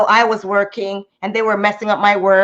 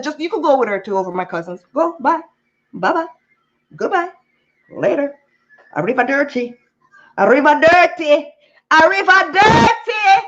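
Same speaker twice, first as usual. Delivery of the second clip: mocking send-off; 4 semitones higher than usual. Mocking goodbye to mother.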